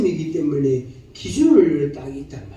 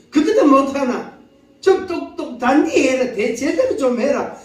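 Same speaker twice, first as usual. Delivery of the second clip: scolding; 5 semitones higher than usual. Acted. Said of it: "이렇게 말하거든".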